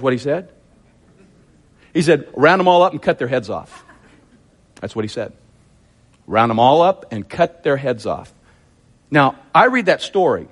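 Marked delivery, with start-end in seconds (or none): 2.3-3.8 quick, run-together order; blunt command at a brisk pace; brisk retold command. First take of retold command. 6.3-8.3 deliberate order, lower and spaced out. Retold or imitated. Repeats the command for emphasis.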